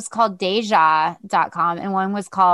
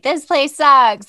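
mock angry customer; 5 semitones higher, 7 dB louder, slower than usual.

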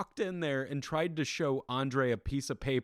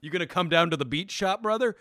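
loud, lifted wrestler voice, punching "brother"; lightly voiced brash wrestler, pitched up; Hulk Hogan; 5 semitones higher, 5 dB louder than usual. Wrestler asking host about coming on the podcast, as Hulk Hogan. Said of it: "Hogan's gonna wanna actually be on".

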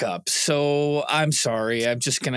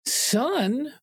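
dad voice; 8 semitones higher than usual. Acted. Parent scolding son.

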